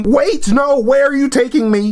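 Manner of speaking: high, alarmed captive protest; mock panic. Nathaniel being hauled to the van, mock panic. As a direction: plead in hammed-up alarm.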